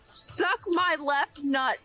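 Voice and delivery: hoarse, strained voice after screaming; rough, worn-out throat; hoarse from yelling. Real, not acted. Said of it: "my throat hurts from screaming so much".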